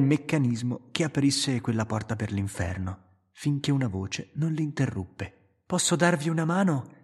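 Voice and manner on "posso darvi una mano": higher, mocking female voice; teasing woman. Romina mocks the men for not asking help. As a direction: needle the men with a smirk.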